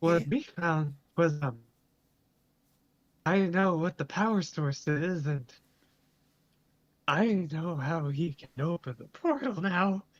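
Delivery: voice cracking and breaking mid-line. A character reporting what they found, voice cracking. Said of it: "your voice is cracking".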